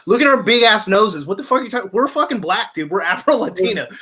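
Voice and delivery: mock outraged yell. Retold outburst at family.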